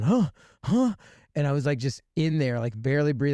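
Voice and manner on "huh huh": high, startled huh; high confused grunts on waking. Retold or imitated. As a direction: wake up baffled. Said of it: "like, going".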